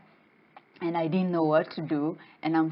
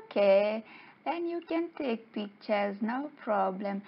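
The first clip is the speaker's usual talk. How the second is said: high, agreeable fish voice; lightly cheerful, pitched-up consent; happy little guys; 5 semitones higher, 3 dB quieter than usual. Acted. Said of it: "they were so happy and they say".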